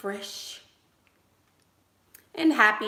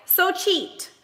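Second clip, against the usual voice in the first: urging cheat; 11 semitones higher than usual. Retold or imitated. Mom urging son to cheat.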